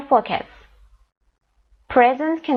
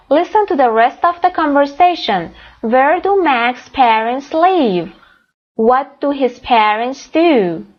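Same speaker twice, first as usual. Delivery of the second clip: slow reading; 4 semitones higher, much slower than usual. Shown as a demonstration. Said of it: "teacher reads questions slowly".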